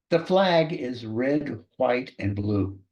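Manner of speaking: slow, measured sample sentence; each word drawn out for dictation. Shown as a demonstration. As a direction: dictate it slowly for someone writing it down. Sample dictation sentence, first reading.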